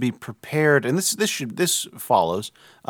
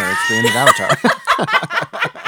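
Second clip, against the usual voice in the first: high squeaky laughing words; 6 dB louder than usual. Real, not acted. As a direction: laugh through the line. Laughing at a silly mix-up.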